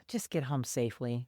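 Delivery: low, soft imitation of a weary officer; sighing resignation. Officer lets the driver go, resigned sigh. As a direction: let it drop, quietly giving in. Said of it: "he just kinda sighs".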